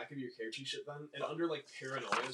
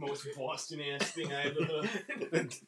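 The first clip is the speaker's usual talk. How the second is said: laughing; 2 semitones higher, slower than usual. Real, not acted. Laughing comment.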